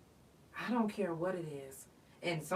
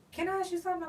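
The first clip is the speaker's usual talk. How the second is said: wife; 10 semitones higher, much faster than usual. Retold or imitated. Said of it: "my wife used to be like".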